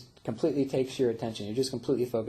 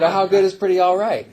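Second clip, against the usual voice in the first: much louder and higher, pushing the question; insistent question; 8 semitones higher, 13 dB louder than usual. Retold or imitated. Homeless man loudly pushing the narrator for a straight answer. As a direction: press him hard, near a shout. Man presses harder each time.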